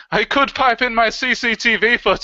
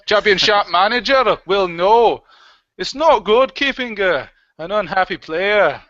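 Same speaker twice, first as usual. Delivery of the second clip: put-on Blackburn accent; 3 semitones higher, 3 dB louder than usual. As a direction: exaggerate a mock Blackburn accent. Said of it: "that was a Blackburn, uh, accent".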